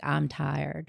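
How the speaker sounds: "I'm tired" with open Southern vowels; Southern long I. Shown as a demonstration. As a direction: draw "I'm tired" toward "ahm tahrd". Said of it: "any word that has, like, I in it".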